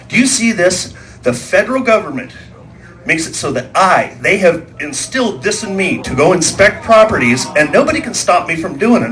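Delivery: lightly voiced official pulling rank; officious game warden.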